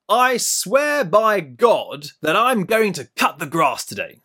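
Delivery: slow, weighty oath to the wife; mock solemn oath. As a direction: swear it like a grand vow. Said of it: "I might say to my wife".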